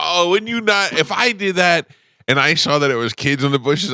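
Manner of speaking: high, squeaky mock indignation; squeaky put-on voice; mock outrage. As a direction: pitch it way up in fake shock. Mock-scolding a prank reaction.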